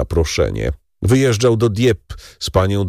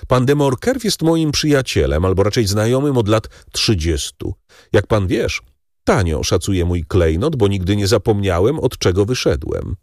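Danglars, smug baron. Acted. Baron confides in the count about his old friend, smug. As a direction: confide with false modesty.

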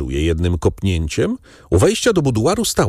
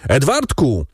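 raised, frantic calling; crying out; 7 semitones higher than usual. A narrator's reading. Father suddenly searches for his son, crying out. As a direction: cry out for a lost child, pitched high. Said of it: "krzyknął nagle".

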